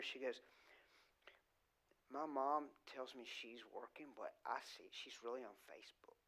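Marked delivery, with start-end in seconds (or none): 2.1-6.2 retold whisper. Preacher retells a fourth grader whispering a secret, hushed. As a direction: whisper it like a child telling a secret in your ear. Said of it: "whispered in my ear".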